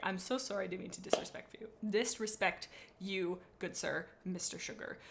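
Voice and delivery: playful apology. Pretend. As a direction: apologize gently to an offended cat. Mock apology to the cat.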